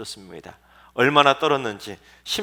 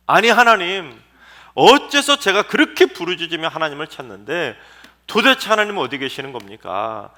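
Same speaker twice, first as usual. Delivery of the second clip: a lightly acted pleading outcry, louder; Habakkuk's anguished cry; 4 semitones higher, 6 dB louder than usual. Preacher voicing Habakkuk crying out to God, mildly anguished. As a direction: plead with God, voice raised in grief. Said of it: "한 맺힌 절규 외침을 쏟아부은".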